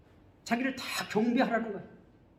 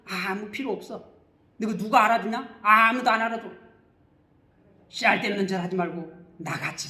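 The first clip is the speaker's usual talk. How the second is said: lightly acted worldly scoffer; mock scoffing. Worldly people sneering at suffering believers, mildly scoffing. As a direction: scoff dismissively, with a touch of pity for a fool. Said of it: "세상 사람들은 비웃어요".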